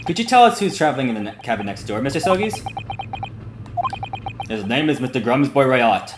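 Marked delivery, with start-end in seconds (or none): 4.5-6.1 lightly voiced Russian guard, a touch proud; a hint of a Russian accent, talking up the gentleman. Guard praising the passenger next door, light Russian accent. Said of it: "me voicing him is also a little bit stereotypical".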